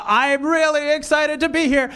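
"excited" said dead flat, slow, no lift at all; flat fake excitement. Real, not acted. Comic greeting the crowd with deadpan, uninflected excitement. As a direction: sound excited with zero inflection. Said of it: "an inability to inflect properly to indicate sincerity".

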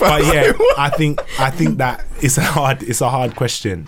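holding back laughter; trying to keep a straight face; stifled giggles. Real, not acted. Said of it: "I'm trying not to laugh".

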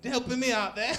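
high, loud hammed-up soap star; hammed-up soap actor. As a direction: camp it up as a randy soap actor. Voicing orgy scene characters.

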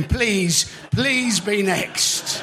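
slow drawn-out please; pleading. Pretend. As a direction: beg for the letter to fall, slowly.

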